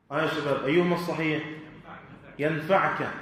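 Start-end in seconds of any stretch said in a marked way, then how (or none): 2.4-3.1 ينفعك as "yanfa'ka", vowelless ayn; ينفعك in the jussive, no u before the kaf; sukun on the ayn. Shown as a demonstration. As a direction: stop on the ayn in ينفعك, then ka. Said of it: "لأنه جاء في جواب الشرط".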